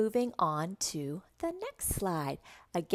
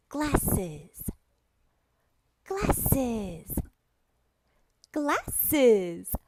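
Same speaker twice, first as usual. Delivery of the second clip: measured, separated syllables for repeating; patient teacher drill, syllable by syllable; word modelling; 5 semitones higher, much slower than usual. Shown as a demonstration. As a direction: say the word clearly, then leave a gap.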